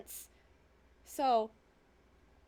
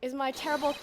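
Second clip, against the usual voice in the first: ordinary delivery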